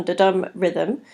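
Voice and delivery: "da-dum" said slowly, second syllable stressed; weak then strong on "da-dum"; iambic stress. Shown as a demonstration. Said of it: "rather than having the da-dum".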